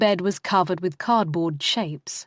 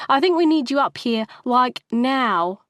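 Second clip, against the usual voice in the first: put-on high, loud and fast teen alarm; high, fast urgent call; urgent shriek; 6 semitones higher, 4 dB louder than usual. A narrator's reading. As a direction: rush it out, half panicked, loud. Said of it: "she shrieked".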